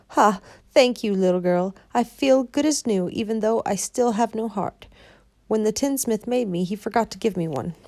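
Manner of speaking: lightly voiced Tin Woodman, grateful.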